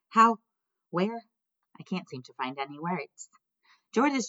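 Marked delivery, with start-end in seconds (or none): 0.1-1.3 surprised. A narrator's reading. Stunned at seeing Bob.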